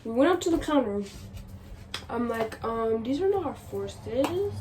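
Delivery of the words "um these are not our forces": slow, overly polite request; being nice. Retold or imitated. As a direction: ask sweetly, stretching it out. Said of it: "Like, being nice".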